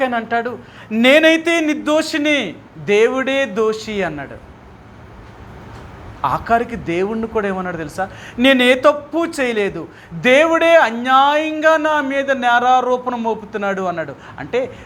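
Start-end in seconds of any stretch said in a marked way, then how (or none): 0.9-4.0 slow, louder self-righteous protest; indignant sufferer insisting he did no wrong; defiant Job. Acted. Preacher acts out Job's complaint. 8.4-13.8 slow, louder self-righteous protest; indignant sufferer insisting he did no wrong; defiant Job. Acted. Preacher acts out Job's accusation.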